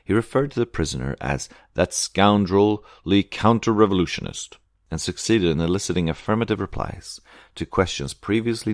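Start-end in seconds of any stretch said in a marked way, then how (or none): 1.7-4.6 slow, slightly raised scornful epithet; scornful denunciation. A narrator's reading. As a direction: stretch out the insult with mild force. Narrator quotes the prosecutor's insult.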